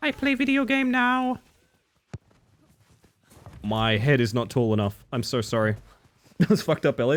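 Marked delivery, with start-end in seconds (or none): 0.0-1.4 high, slow simpleton voice; hammed-up caveman; dumb caveman voice. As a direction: talk like a dim-witted brute. Mocking own earlier line.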